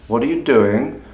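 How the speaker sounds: doing dips then rises; fall rise tone. Shown as a demonstration. Teacher comparing three ways to ask. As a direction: scoop down and up on doing. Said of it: "all fundamentally mean essentially the same thing".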